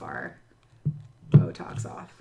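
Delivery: fighting back a sneeze; talking through a held sneeze; about to sneeze. Real, not acted. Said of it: "I'm about to sneeze again".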